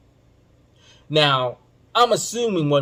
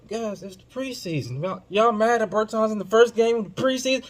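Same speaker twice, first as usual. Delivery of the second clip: mock incredulous; 9 semitones higher than usual. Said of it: "I'm like".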